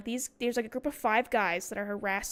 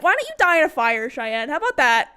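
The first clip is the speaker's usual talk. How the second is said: retold freak-out; 5 dB louder than usual. Snapping back at the classmate who insulted her, freak-out. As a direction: lash out, acted for the story. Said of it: "this is the legendary freak out".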